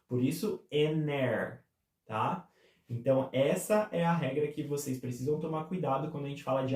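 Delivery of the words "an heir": AN HEIR said as "a-NAIR", no H; vowel sound, linked. Shown as a demonstration. Teacher concluding the rule, linked vowel sound. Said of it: "já é o som de uma vogal".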